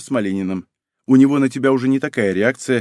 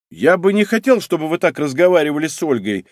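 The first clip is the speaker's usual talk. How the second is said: ordinary delivery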